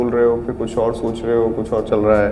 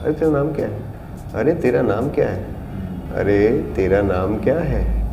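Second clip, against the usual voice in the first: changing tempo; 4 dB quieter than usual. Shown as a demonstration. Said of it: "हर बार speed change हो रही है".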